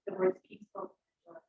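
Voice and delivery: peaceful enjoyment lifted high and set apart; stressing peaceful enjoyment. Real, not acted. Resident at council stressing her rights, peaceful enjoyment said high. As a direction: lean on the words peaceful enjoyment. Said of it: "And I want to stress".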